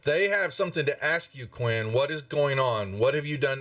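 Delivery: lightly voiced mom questioning her son; stern mother. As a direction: press the boy, slowing on the question. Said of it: "And she goes".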